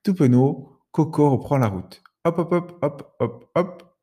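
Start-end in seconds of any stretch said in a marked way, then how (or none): 2.2-2.8 higher, springy hop hop hop; bouncy hops. Acted. Parrot still hopping along, higher springy hops. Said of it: "de moins en moins vigoureux". 2.8-4.0 falling, weaker hops; tiring hops. Acted. Tired parrot hopping less and less, weaker falling hops. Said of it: "de moins en moins vigoureux".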